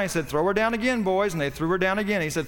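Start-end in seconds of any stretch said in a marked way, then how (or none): 0.3-1.3 king bellowing to his men from the wall; calling out an order. Acted. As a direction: shout the order down to the men below.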